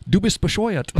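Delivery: high put-on voice "Du bist bescheuert"; mock German insult. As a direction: tease like a rude German friend.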